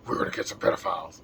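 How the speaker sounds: low, fast gravel-free Batman growl, nearly voiceless. Retold or imitated. Dan Bongino quoted in a Batman voice. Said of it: "he says out of a Batman voice".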